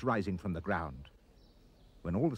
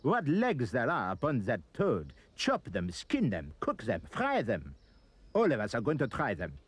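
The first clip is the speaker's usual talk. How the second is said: mock French scream. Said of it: "They screamed in French".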